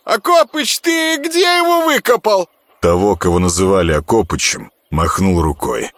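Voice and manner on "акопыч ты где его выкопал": high, womanly voice; surprisingly high, almost female voice. Acted. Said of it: "на удивление высоким, почти женским голосом".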